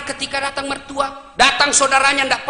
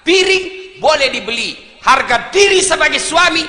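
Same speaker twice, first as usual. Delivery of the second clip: fiery preaching; 5 semitones higher, 7 dB louder than usual. Acted. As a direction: rouse the men to their feet. Preacher rousing the crowd.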